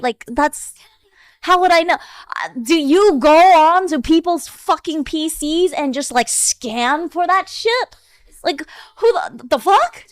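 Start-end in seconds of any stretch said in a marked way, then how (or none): 1.4-10.0 exasperated. Real, not acted. Exasperated defense, loud.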